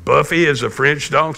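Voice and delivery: dad checking his daughter's surprising news; retold questioning father; questioning echo. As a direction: repeat it back as a mild, puzzled question. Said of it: "So I said".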